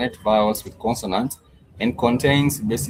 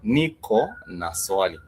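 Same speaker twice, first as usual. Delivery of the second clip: slow repeat; slower than usual. Shown as a demonstration. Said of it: "ni is I".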